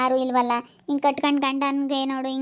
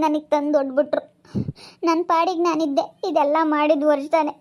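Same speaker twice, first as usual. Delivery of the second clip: tearful outburst. Acted. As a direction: blurt it out through tears, voice rising. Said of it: "ಅಳ್ಬೇಡ, ಸುಮ್ನಿರಮ್ಮ".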